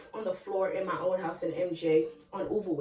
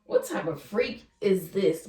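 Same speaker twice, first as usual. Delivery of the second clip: mock viewer reaction; slower than usual. Imagined viewers' judging reaction.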